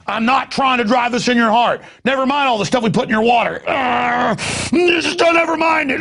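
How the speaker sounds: high, rising into a shout; oily villain voice that bursts into a shout; mock sinister reassurance. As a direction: fake soothing that cracks into yelling. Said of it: "they're telling me".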